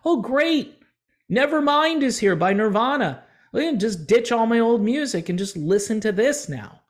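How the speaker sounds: high, sarcastic fan cheer; sarcastic high-pitched delight; mock enthusiasm. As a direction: lampoon a fan thrilled to ditch old music. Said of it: "They didn't wake up and go".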